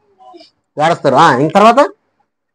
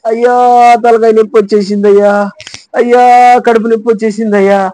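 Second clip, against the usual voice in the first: hammed-up "ayya" wail over aches; mock wailing; 4 semitones higher than usual. Preacher mimics believers crying to God over aches, mock wailing. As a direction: whine it out like an imitated cry of complaint. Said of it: "ఎప్పుడు ఏడస్తాం".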